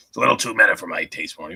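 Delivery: fast, slurred burpy scientist; Rick impression. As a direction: rattle it off like a drunk Rick.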